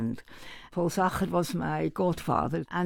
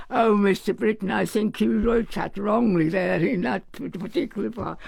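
imitating a young Cockney bassoonist, higher and louder; a lightly put-on Cockney accent, bold and cheeky; hammed-up Cockney, a bit louder, telling the great conductor he's wrong; 3 semitones higher, 4 dB louder than usual. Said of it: "in a very cockney voice".

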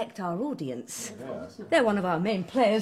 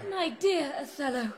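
raised-pitch stage greeting; Desdemona greeting Othello; 4 semitones higher, 3 dB quieter than usual. Acted. Actress answers her Othello in rehearsal, pitched high. Second take of Desdemona's line.

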